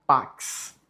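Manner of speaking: pax with the x said as k s, paks; Latin pronunciation. Shown as a demonstration. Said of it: "O X em latim tem a pronúncia de K S".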